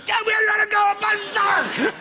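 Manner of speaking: very high shouted cartoon line; over-the-top cartoon yell. Shown as a demonstration. Hours into a recording session, shouting the line high and loud. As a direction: go full berserk in the booth. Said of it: "And when you go".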